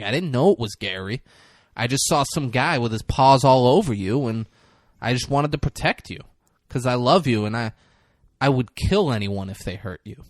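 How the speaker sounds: lightly put-on accent of a tough-guy actor; a former rapper's accent. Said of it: "pretty good accent there".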